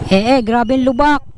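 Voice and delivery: shaken "Eh, eh" over potholes; jolting stammer from the bumps; on a bumpy road. Real, not acted.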